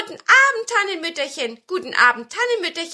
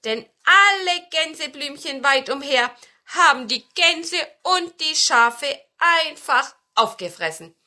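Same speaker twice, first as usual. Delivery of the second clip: laute, hohe Zwergenstimme; rufende Zwerge; 6 semitones higher, 8 dB louder than usual. A narrator's reading. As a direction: antworte dem Besen laut und lebhaft als Zwerg. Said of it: "riefen die Zwerge". (kräftig rufend, hoch angesetzt)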